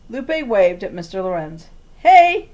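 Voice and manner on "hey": high, loud bright hey; girl greeting a grumpy neighbour; chirpy girl. A narrator's reading. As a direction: wave and greet cheerfully. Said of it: "she said".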